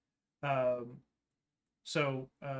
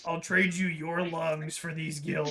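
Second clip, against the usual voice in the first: shady merchant voice; 2 semitones higher, 4 dB louder, much slower than usual. Acted. Dealer offer, laughing, slow.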